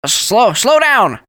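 panicked passenger yells at the driver to brake; shout. Acted. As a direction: plead at the top of the voice. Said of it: "Bert shouted".

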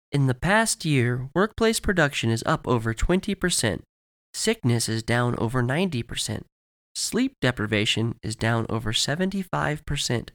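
lightly voiced, measured promo presenter; commercial spokeswoman. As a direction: deliver a polished corporate announcement.

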